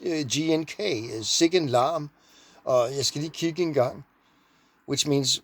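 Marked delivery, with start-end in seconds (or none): 1.2-2.1 blur the k in "Sikken" into a g; Danish k and g. Shown as a demonstration. Showing the Danish k and g are the same. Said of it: "Those are K and G". 3.0-4.0 "kigge" with a hard k start and a soft g middle; Danish k and g. Shown as a demonstration. Danish teacher showing k and g blur together. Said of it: "Those are K and G".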